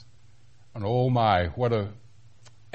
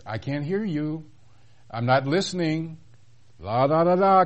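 put-on higher-pitched, childish blocking-out taunt; mock refusal to listen; 5 semitones higher than usual. Acts out God refusing to listen.

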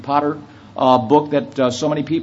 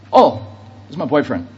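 nonchalant; 2 semitones lower than usual. Retold or imitated. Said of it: "she just very nonchalantly said".

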